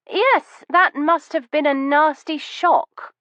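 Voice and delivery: put-on sympathy. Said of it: "injecting my voice with suitable sympathy".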